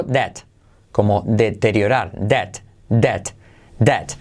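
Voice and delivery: "debt" said as det, B dropped; silent B in debt. Shown as a demonstration. English teacher models debt for Spanish learners, silent B. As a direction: say debt with no B sound. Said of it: "la B no se dice".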